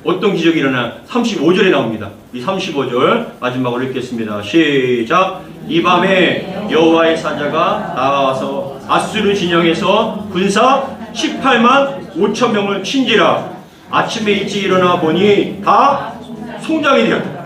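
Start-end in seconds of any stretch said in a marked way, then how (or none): 5.7-17.4 slow, measured Bible reading to the congregation; slow scripture reading. Acted. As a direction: read the verse slowly and solemnly. Reads scripture aloud.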